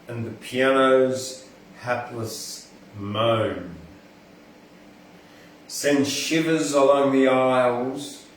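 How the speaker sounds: measured, rhythmic verse reading; poem recitation. Acted. Vlogger reading a friend's outback poem to camera, rhythmic recitation. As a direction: let the metre and rhyme carry each line.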